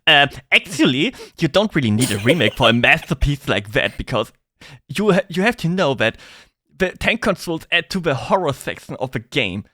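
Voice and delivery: lightly mocked pedantic internet commenter; a hint of a lecturing fan; know-it-all commenter. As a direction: mimic a smug "um, actually" correction. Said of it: "people in the comments like".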